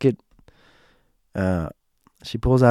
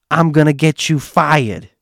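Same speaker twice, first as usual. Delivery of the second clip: louder, higher mock threat; retold threat; 5 semitones higher, 4 dB louder than usual. Joanne threatens the cop, mock indignant. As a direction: imitate her threatening someone loudly.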